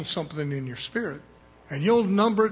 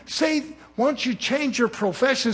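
a higher, louder put-on voice of someone asking; voiced questioner; 7 semitones higher, 5 dB louder than usual. Preacher voicing someone who questions his working, higher and louder. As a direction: mimic a nosy man pushing a question.

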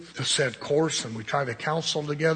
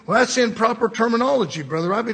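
higher, louder indignant objector; mock objection; 7 semitones higher, 6 dB louder, faster than usual. Church member objecting to Brother Robbie's language, mock indignation. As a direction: imitate a scandalised church member.

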